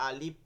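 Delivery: "আলিফ" with a long first vowel, closed ending; mispronounced alif. Shown as a demonstration. Teacher shows how not to say it, mispronounced. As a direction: stretch the opening a of "আলিফ", stop the ending. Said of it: "এরকম বলা যাবে না".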